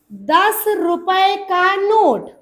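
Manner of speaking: very slow, drawn-out teaching delivery; stretched, deliberate dictation. Shown as a demonstration. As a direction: spell out the phrase word by word for a class. Teacher dictates the key phrase.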